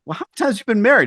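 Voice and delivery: a light teasing jab at the boss; incredulous quip. Retold or imitated. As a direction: fire it off fast, high and disbelieving. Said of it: "I'm like".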